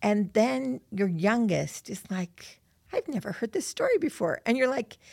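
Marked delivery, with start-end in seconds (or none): 2.9-4.4 put-on child's protest. Youngest child to parent over an old story, mock protest. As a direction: imitate a youngest child's innocent complaint.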